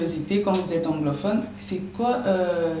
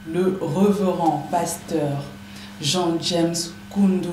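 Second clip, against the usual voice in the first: slow formal announcement; slower than usual. Acted. Host formally introducing the guest.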